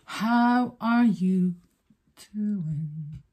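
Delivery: singsong greeting. Acted. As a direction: sing it to the viewers.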